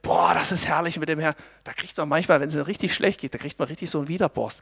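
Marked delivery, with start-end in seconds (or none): 0.0-1.3 pious gushing. Retold or imitated. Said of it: "so fromm daherschwätzt".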